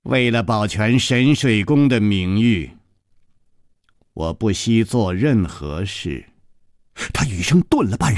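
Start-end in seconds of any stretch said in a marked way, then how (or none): 0.0-6.3 a short laugh, then stern and cold; mock laughter turning cold. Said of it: "尹姬厉声笑了".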